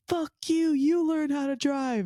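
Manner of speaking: high-pitched, drawn-out mock scream; re-enacted outraged high yell; imitated scream. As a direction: scream it like mom, without full volume. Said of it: "started screaming at this guy".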